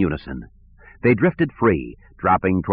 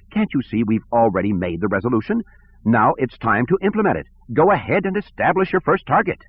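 lightly voiced petty director, higher; peevish, a touch higher; whiny bureaucrat; 4 semitones higher than usual. Sivron voice.

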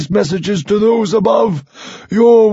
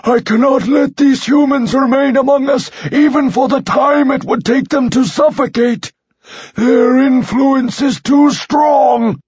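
cold anger; 3 semitones higher than usual. Acted. Leader hardens.

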